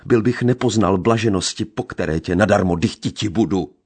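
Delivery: gypsy raging in grief; anguished reproach. A narrator's reading. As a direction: wail his lost happiness at her.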